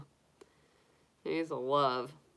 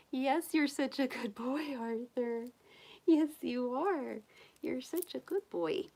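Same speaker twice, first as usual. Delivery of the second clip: cooing at a pet; 6 semitones higher than usual. Real, not acted. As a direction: coo it to a beloved little bunny. Cooing praise to pet bunny.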